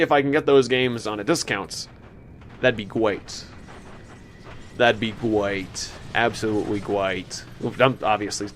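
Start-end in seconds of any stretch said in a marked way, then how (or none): 2.6-7.4 slow, deliberate lisp. Pretend. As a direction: lisp the s sounds on purpose. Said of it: "I'm intentionally saying that with a little bit of a lisp".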